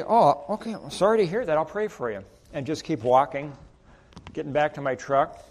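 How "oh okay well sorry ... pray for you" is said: lightly voiced sympathetic stranger; kindly sympathy. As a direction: offer the prayer lightly as you leave. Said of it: "And I would say".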